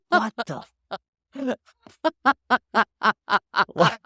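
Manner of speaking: high, loud shocked outburst; stunned high-pitched what the. Retold or imitated. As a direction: blurt it out in disbelief. Shocked reaction retold.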